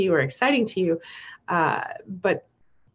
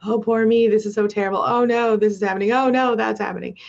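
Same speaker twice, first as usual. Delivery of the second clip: whiny complainer; 2 semitones higher, 5 dB louder than usual. Retold or imitated. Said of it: "if they're putting out a lot of negativity".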